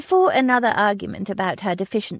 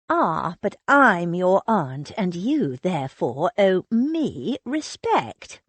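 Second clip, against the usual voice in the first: slow, lordly teasing; mock pompous. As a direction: playact the superior aunt. Teasing with pompous aunt authority.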